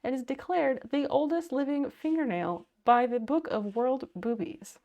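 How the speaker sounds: mock news anchor read; newscaster voice. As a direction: read it like a weekend update anchor. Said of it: "My newscaster voice is really out of practice".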